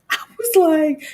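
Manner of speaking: laughing out the words in shock. Real, not acted. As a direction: laugh through it, stunned. Shocked by raccoon answer.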